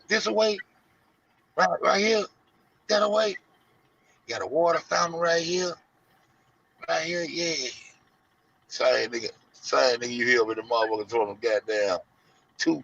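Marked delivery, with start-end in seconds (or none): 0.1-7.7 high, unsure put-on voice; confused direction giver. Directing the lost man, high confused voice. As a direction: point every way at once.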